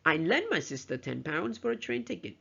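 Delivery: LENT jumps up in pitch, the rest runs on evenly; stress on LENT. Shown as a demonstration. Teacher repeats the example for students, stress on "lent". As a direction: hit "lent", then let the sentence run. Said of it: "if we stress on the word lent".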